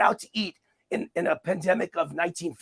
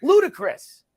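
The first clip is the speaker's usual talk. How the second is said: loud, high, incredulous repeat; indignant outburst; 11 semitones higher, 6 dB louder than usual. Real, not acted. Guest to host on closing small businesses, outraged and loud. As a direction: hammer the word home in disbelief. Emphatic outrage at lockdown rules.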